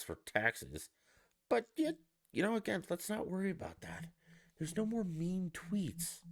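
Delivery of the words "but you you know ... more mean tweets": mock the voters' cheerful denial; sarcastic mockery. Sarcastic dismissal of problems.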